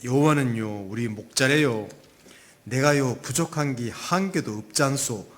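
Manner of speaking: amateur attempt at Gangwon dialect; Gangwon accent. Preacher tries a rehearsed psalm on congregation, Gangwon accent. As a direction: lilt it in a practised but imperfect Gangwon accent. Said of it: "강원도 버전은 이렇답니다".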